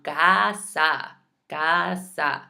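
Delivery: "Casa" with both A's wide open "ah"; careful Spanish "Casa", first A stretched; open A demo. Shown as a demonstration. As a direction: sound out "Casa" in two clear open syllables. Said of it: "I still have to make that sound".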